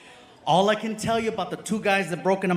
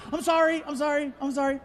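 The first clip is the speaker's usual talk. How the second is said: high apologetic barista; 7 semitones higher, faster than usual. Retold or imitated. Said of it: "and she's like".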